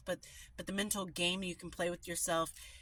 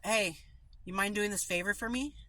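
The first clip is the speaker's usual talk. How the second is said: blunt request; 2 semitones higher, 3 dB louder than usual. Shown as a demonstration.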